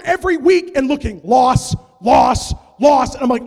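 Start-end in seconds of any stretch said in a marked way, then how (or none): 1.2-3.1 despairing. Retold or imitated. Reading grim scores.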